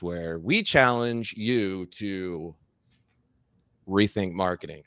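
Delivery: slow, weighty announcer read of the show slogan; dramatic tagline read. Pretend. Host echoing the podcast intro in a slow announcer voice. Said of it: "I'm gonna do that every time".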